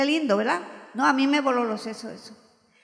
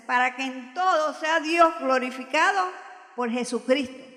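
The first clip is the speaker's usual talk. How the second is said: shouted scripture; 4 dB louder than usual. Retold or imitated. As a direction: proclaim it to the hall like a preacher. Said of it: "mire, yo lo grité así".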